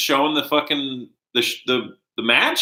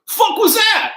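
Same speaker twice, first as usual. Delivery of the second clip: laughing shout; 4 dB louder than usual. Retold or imitated. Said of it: "Shivani after the Indie Taker".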